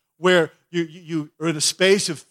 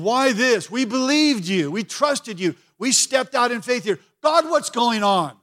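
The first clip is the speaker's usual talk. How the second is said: despairing Joshua; 5 semitones higher than usual. Retold or imitated. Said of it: "Joshua's on his face there saying".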